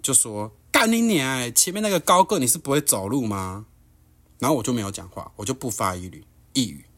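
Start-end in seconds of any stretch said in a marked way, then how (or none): 0.7-3.6 a high, loud mock snarl at the tall guy; retold cursing outburst. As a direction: spit the curse out like an angry stranger. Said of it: "大骂三字经".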